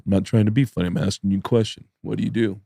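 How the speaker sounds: low, soft, deadpan retort; understated insistence, voice dropped; Judah Friedlander. Retold or imitated. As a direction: lightly imitate a comedian questioning a heckler. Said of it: "And Judah goes".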